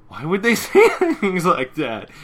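hammed-up offended whine; indignant outburst. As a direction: wail it, offended. Twilight's indignant quote.

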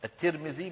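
الترمذي said "at-Tirmidhi", with i after the t; kasra on ta. Shown as a demonstration. Teacher showing students the name, pronounced "at-Tirmidhi". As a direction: stress a clear "tir" in الترمذي. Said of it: "بكسر التاء".

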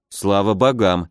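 "Слава богам" let out slowly on a breath of relief; relieved exhale. Acted. Brother exhales after his sister's joke, slow relief. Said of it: "выдохнул я".

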